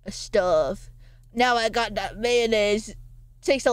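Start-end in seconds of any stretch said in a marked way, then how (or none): 0.0-0.9 low-pitched "stove" said as "stuv"; short "uh" vowel in "stove"; altered vowel in "stove". Shown as a demonstration. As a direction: say "stove" to rhyme with "love". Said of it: "is it called a stove or a stove?".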